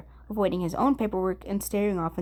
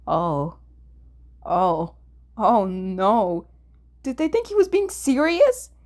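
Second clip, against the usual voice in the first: dawning panic; 5 dB louder, slower than usual. Acted. Atsushi realizing the office took him seriously, rising panic. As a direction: let the horror dawn.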